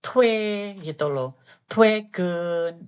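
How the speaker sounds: "Twegen" said slowly, starting with a clear tw sound; tw sound demo. Shown as a demonstration. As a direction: spell out "Twe", then say "Twegen". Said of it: "O ketemu I itu bacanya W".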